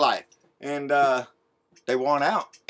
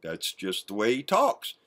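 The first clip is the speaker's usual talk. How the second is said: softer, lower mock excuse; mocking Junior; 9 semitones lower, 8 dB quieter than usual. Vlogger parrots Junior's excuse for his father, soft mock voice. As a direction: dismiss it like a sheepish son. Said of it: "That's what Junior said".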